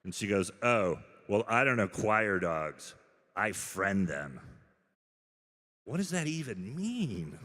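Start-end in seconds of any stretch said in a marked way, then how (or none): 0.6-4.4 smug retort. Retold or imitated. Smug woman at dog park. 5.8-7.4 high, incredulous; baffled. Real, not acted. Reacting to the dog-park woman, high disbelief.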